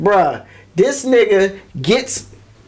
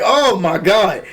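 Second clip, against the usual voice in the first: shocked; much slower than usual. Retold or imitated. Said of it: "I said that out loud".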